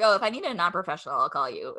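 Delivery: quick, offhand mock rejection, dropping away; dismissive brush-off. Newspaper or podcast replying by email, mock dismissive. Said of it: "the tone of it was like".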